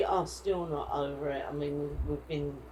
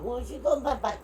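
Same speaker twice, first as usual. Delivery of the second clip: a laughing, higher-pitched comeback; laughing retort; 8 semitones higher, 4 dB louder, faster than usual. Retold or imitated. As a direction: laugh through the retort at him. Retelling the airport argument.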